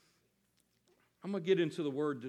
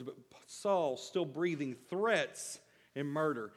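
slow, weighty stress on "breathing threats and murder"; slow emphasis; slower than usual. Shown as a demonstration. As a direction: lean hard on "threats". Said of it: "I wanna go back to those first couple words".

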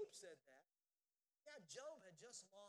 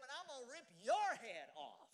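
much louder, defiant shout; 3 semitones higher, 12 dB louder than usual. Retold or imitated. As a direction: hurl the threat back at the giant. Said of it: "David stood up and said".

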